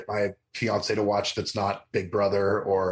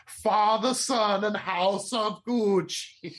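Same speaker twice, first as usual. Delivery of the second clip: high, slow churchy intoning; hammed-up sign of the cross; mock solemn prayer; 9 semitones higher, much slower than usual. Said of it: "my fiance loves going, saying".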